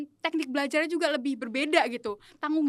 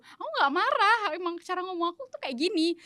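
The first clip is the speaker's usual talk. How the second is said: mildly exasperated self-defence, pitched higher; kesal membela diri; 4 semitones higher than usual. Retold or imitated. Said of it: "Awalnya tuh aku kesel gitu". (sedikit kesal, membela diri)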